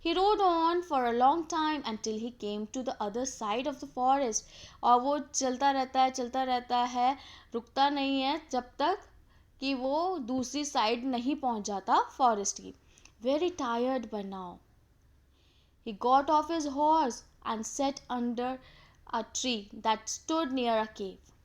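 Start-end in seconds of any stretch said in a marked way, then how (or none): 0.1-4.4 slow, raised storytelling voice; story read-aloud. A narrator's reading. Teacher reads the king's story to students, in slow read-aloud voice. 13.2-21.3 very slow, measured narration; story read-aloud. A narrator's reading. Teacher reads of the tired king resting, in slow storytelling voice.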